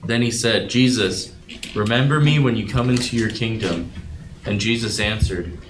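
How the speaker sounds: steady, measured Bible reading; scripture reading. Acted. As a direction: read the passage aloud to the group with care. Reads scripture aloud to group.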